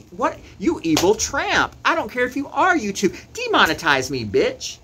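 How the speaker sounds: loud, high, furious yelling; heated rant. Real, not acted. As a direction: rage at her, voice way up. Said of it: "I'm so heated".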